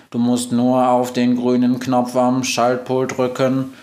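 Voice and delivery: slow monotone instructions; even, mechanical machine voice; robot Globus. Acted. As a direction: recite it like a computer.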